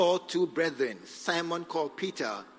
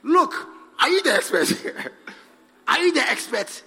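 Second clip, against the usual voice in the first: angry shout; 7 semitones higher, 10 dB louder than usual. Retold or imitated. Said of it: "I said".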